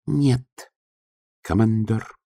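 high, small clerk voice; a nervous little clerk answering; timid clerk voice. Acted.

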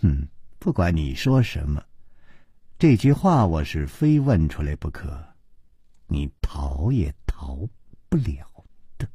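low, soft teasing insistence; softly tease, slowing to the end; playful quiet threat with a coquettish smile; coy princess. Acted. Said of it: "娇笑着说".

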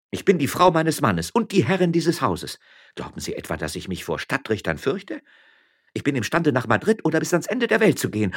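high, proud, indignant tirade; defiant miller's wife. Acted. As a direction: stand your ground and threaten him.

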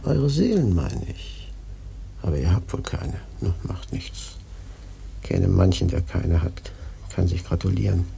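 put-on low, mysterious old man; hint darkly at lost souls; mysterious old prophet. Old prophet teasing the sailors about their souls, low.

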